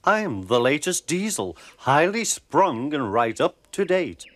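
purring Daisy. Acted. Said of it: "she purred to the passengers".

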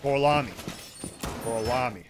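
low, softening mock Italian accent. Shown as a demonstration. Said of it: "I can do a great Italian accent".

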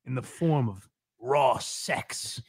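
slow, creepy fake therapist; drawn-out sleazy mock shrink. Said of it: "the most disgusting therapist voice".

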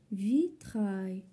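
vitrail divided into two beats; syllable by syllable. Shown as a demonstration. Teacher repeating to locate the sound, syllable by syllable. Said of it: "في la deuxième syllabe".

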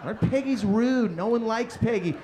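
loud ranting dictation; irate dictation. Acted. Dad dictating insults about Peggy to his son, irate. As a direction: keep barking out what to write.

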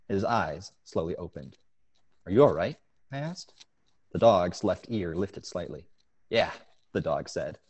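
reads his short story aloud with a steady narrator's pace; story reading. A narrator's reading. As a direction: tell it like an author sharing the opening of his story. Author reads his story excerpt.

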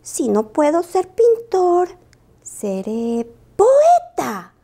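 lento, resuelto, alargando poeta; decidido. Acted. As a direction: con nueva determinación. Lupo decide ser poeta. (Lupo decide ser poeta, resuelto)

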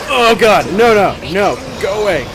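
real fright at a monster; terrified horror victim. Real, not acted. Panicking at game monster.

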